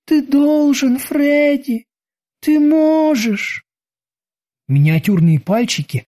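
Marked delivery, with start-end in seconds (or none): 0.1-1.0 put-on high, insistent child voice; creepy little girl. A narrator's reading. Little girl urges again. 1.0-3.6 put-on high, slow child voice; creepy little girl. A narrator's reading. Little girl urges again.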